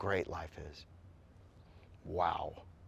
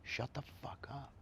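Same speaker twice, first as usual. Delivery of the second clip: put-on gruff old man; 5 semitones higher, 11 dB quieter than usual. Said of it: "this old man said".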